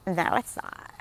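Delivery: mock creaky denial; ratchet voice. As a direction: deny it in an affected glottal fry. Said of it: "same s-, ratchet voice".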